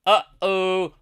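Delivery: high, loud singsong warning; mock alarm. Trader spotting a bad closing candle, mock alarm. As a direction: call it out as playful dread.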